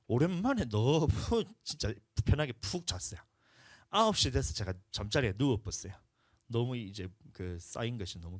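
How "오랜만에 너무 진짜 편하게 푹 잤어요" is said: laughing relief at sleeping well. Real, not acted. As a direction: chuckle through the relief. Laughing about finally sleeping.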